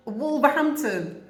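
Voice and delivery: slow, high amazed emphasis. Retold or imitated. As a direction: draw it out in disbelief. Marvelling at the guess.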